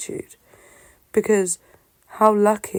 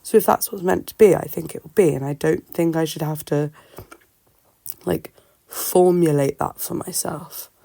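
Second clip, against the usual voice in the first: talking with a sore throat; strained voice from swollen tonsils. Real, not acted. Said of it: "I'm sorry about my voice and my throat".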